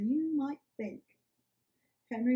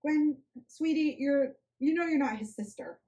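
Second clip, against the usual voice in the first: tender; 4 semitones higher than usual. Acted. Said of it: "with as much tenderness as she could muster".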